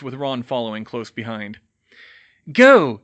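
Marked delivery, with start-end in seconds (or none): 2.5-3.0 loud, sudden yelled command; short, raised-pitch shout. Acted. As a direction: yell it out as an urgent order. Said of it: "he yelled".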